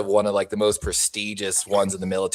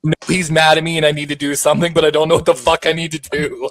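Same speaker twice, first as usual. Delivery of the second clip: panicked recruit; 6 semitones higher, 4 dB louder than usual. Retold or imitated. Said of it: "people would just turn and be like".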